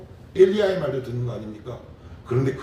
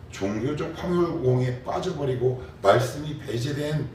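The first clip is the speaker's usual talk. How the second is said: ordinary talk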